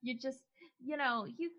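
mean every word like a proud father; a father telling his son he's proud; heartfelt dad. Acted. Dad's heartfelt speech to son.

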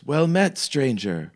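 high, bright call of "Well met"; bold greeting. Acted. Zimby greeting the handsome stranger, a bold high call. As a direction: hail the stranger boldly. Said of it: "and she says".

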